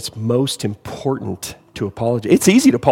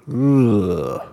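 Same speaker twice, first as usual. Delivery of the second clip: pained groan; 3 semitones lower than usual. Real, not acted. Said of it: "Oh, you're killing me".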